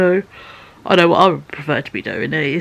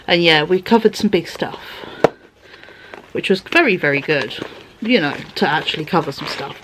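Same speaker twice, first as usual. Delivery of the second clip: ordinary talk, nothing marked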